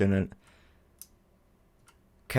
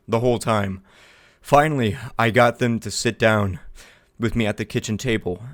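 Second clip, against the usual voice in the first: measured story-like reading; reading a written account aloud; letter read aloud. Acted. Reads an in-game account aloud.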